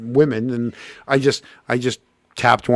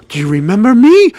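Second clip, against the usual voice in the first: excited greeting; 8 semitones higher, 7 dB louder than usual. Retold or imitated. Girl from the Wang greets him.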